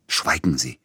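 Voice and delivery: understated imperious rebuke; peremptory. A narrator's reading. Composer silencing his agent, mildly peremptory. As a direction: cut him off with a curt order. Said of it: "herrschte Peter Iljitsch ihn an".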